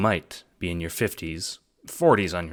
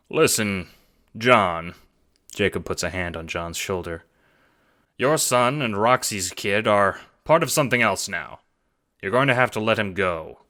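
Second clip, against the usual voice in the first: a touch of forlorn; softened Jacob; 2 semitones higher than usual. Acted. Jacob telling John to let his son go, forlorn. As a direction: let him down gently.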